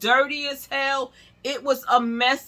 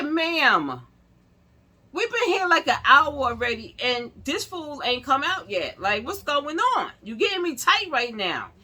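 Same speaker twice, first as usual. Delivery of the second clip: raised and louder, exasperated complaint; fed up; 5 semitones higher, 4 dB louder than usual. Retold or imitated. Complaining to the receptionist after an hour waiting, louder and exasperated. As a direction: let the hour-long wait boil over.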